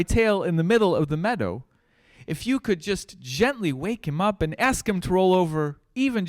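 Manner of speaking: high mouse voice calling out, slowing at the end; a little mouse begging a gazelle for help. Acted. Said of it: "he called out".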